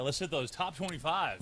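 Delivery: light bingo caller voice; a hint of radio countdown host; Casey Kasem. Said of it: "Was that a Casey Kasem?".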